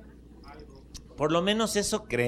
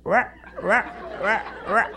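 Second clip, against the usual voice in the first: frog croak; 4 semitones higher, 4 dB louder, slower than usual. Acted. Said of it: "y hablan".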